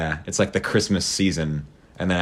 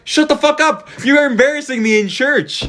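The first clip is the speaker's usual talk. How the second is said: much higher, louder mock scold; imitated angry mom; 3 dB louder than usual. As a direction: snap at him like an embarrassed mother. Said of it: "It's like".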